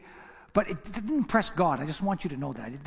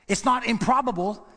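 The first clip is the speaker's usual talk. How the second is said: climbing, higher and louder on impossible; emphatic declaration; 5 semitones higher, 4 dB louder than usual. Acted. Preacher hammering the point home to the church, loud. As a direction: drive it up to a ringing impossible.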